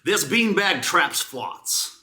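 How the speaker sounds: beanbag review read with mock gravity, slowing on the punchlines; dramatic review reading. Host reads a beanbag review to her co-host, mock-grave. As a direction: build each line toward the joke.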